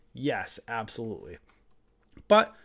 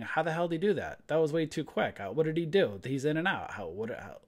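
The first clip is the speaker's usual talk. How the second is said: lightly voiced confused newbie trader; baffled newbie; 2 semitones higher than usual. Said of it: "you're a newbie saying".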